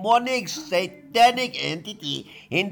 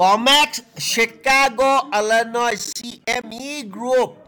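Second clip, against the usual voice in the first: shouting; 5 semitones higher, 4 dB louder than usual. Real, not acted. Yelling answer again.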